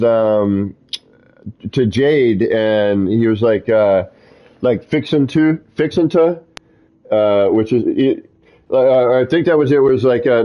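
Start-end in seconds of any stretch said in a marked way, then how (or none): 4.9-6.4 put-on a light Southern accent, raised high; imitating a Southern friend saying fixin' to. Imitating a friend's Southern accent while telling a story, lightly voiced. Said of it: "Southern accent".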